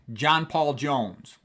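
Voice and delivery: John Paul Jones, three slow, even beats; slow down and stress John, Paul and Jones alike; triple stress. Shown as a demonstration. Teacher showing a memorable name, John Paul Jones slowly triple-stressed. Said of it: "three stressed syllables in a row".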